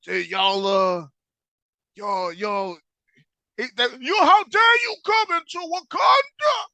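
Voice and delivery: mock outrage building to a yell; mock outraged shout. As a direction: Wakandans yelling at the intruder. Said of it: "they said".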